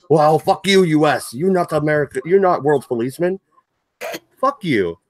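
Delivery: a badly faked French accent, scornful; hammed-up French accent telling the US off. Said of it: "that was the shittiest French accent ever".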